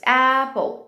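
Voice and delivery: APPLE split into "a" and "pple"; broken into syllables. Shown as a demonstration. Teacher asking how many syllables, broken up. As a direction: stretch APPLE into two separate syllables. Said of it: "quantas sílabas?".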